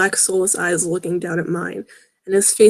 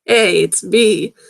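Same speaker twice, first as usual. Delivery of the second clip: deep raspy voice; 5 dB louder, much slower than usual. Acted. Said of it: "a deep and raspy voice".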